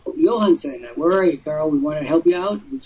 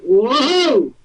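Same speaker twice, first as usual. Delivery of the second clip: crowd's astonished whoa; 9 semitones higher than usual. Retold or imitated. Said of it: "everyone went".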